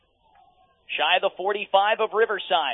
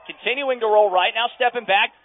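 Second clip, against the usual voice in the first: excited play-by-play; 5 semitones higher, 3 dB louder than usual. Acted. Play-by-play building up on the pass.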